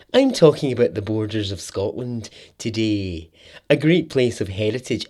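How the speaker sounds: lightly exaggerated, invented Scottish presenter accent; made-up Scottish accent. Mocking documentary presenters to listeners, made-up Scottish accent. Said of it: "the made-up Scottish accent".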